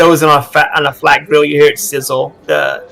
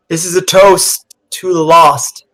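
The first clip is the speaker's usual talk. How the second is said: toast to the lost; 4 semitones higher, 5 dB louder than usual. Acted. Captain toasts her lost crew.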